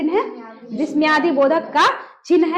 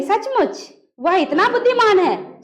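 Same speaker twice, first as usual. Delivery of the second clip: slow, higher-pitched, सचमुच on its own; pause after सचमुच; 4 semitones higher than usual. Shown as a demonstration. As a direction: break after सचमुच, then take your time. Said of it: "कैसे बोलेंगे?". (सचमुच पर रुककर, धीरे)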